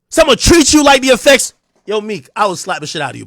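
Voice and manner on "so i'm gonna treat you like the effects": mock quote.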